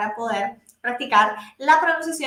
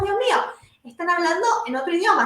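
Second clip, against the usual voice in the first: mock bewilderment, pitched higher; higher, mildly dismayed reaction; bewildered listener; 5 semitones higher, much faster than usual. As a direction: act out an overwhelmed listener's exclamation. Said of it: "que cuando escuchamos decimos".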